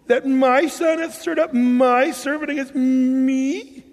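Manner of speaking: complaining king. Acted. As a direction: reads Saul's words as a wounded grumbling king. Saul's complaint read as scripture.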